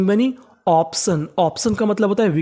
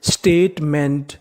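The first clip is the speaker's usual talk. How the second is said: स्टेटमेंट drawn out slowly; slow teaching read; 3 semitones lower, slower than usual. Shown as a demonstration. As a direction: sound out स्टेटमेंट slowly for the class. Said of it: "तो पूरी meaning क्या बन गई?". (स्टेटमेंट धीरे-धीरे)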